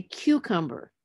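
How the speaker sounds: CUCUMBER slowly, as CU-cum-ber; stress on first syllable. Shown as a demonstration. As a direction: lean on CU in cucumber. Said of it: "the stress will be on the third from the end".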